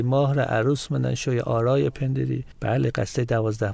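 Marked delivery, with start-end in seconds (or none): 0.0-2.5 verse recited in a Mashhadi accent. Shown as a demonstration. Guest quoting Malek osh-Sho'ara's dialect ode as an example, Mashhadi accent. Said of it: "با لهجهٔ مشهدی".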